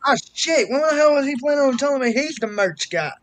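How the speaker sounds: high-pitched, playful grievance; indignant surprise. Real, not acted. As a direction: react as if left out of news. Mock grievance at surprise news.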